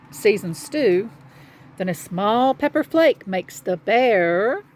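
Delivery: quick, bouncy rhyme reading; children's story narration. A narrator's reading. Telling children of animals gathering in the cave, brisk storytelling. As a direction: bounce along the rhyme for young listeners. Reads a picture book aloud.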